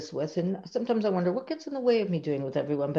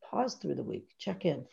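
gentle invitation; 8 dB quieter than usual. Shown as a demonstration. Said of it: "inviting them".

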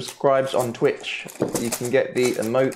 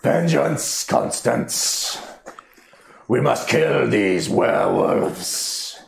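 booming voice in the head, slow; dopey cartoon bellow; 2 semitones higher, much slower than usual. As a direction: bellow it like a dim giant. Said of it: "You hear a booming voice in your head".

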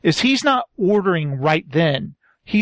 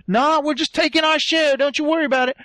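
higher-pitched dismissive retort; put-on nonchalance, pitched up; mock brush-off; 6 semitones higher than usual. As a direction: wave them off, imitating a cocky schemer. Acted brush-off when caught.

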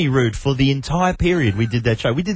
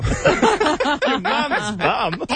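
laughing; 13 semitones higher, much slower than usual. Real, not acted. Laughing incredulous repeat.

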